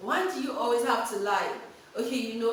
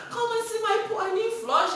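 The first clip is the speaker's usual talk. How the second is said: crying plea; 11 semitones higher, 5 dB louder than usual. Retold or imitated. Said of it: "And I was crying".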